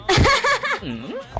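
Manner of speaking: high, repeated hacking coughs; coughing fit. Acted. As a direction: cough helplessly instead of answering. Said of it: "बच्चा खांस क्यों रहे हैं". (ज़ोर की लगातार खाँसी)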